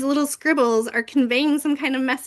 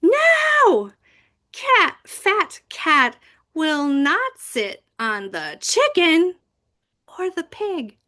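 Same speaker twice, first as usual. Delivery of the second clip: big crazy voice; 6 semitones higher, slower than usual. Shown as a demonstration. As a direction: read it as dramatically as the huge text looks. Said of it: "You have to read it like this".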